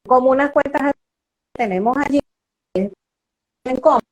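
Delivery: metallic voice. Real, not acted. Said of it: "se te escucha metálico".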